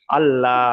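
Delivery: আল্লাহ with a light, open লা; thin Allah. Shown as a demonstration. Teacher demonstrating thin আল্লাহ for contrast. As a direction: say আল্লাহ thin, lips spread. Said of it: "অর্থাৎ লা করে পড়তে হবে".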